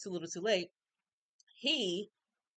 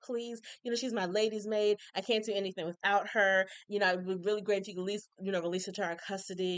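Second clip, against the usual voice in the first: sweet. Retold or imitated. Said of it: "Violet's just so sweet".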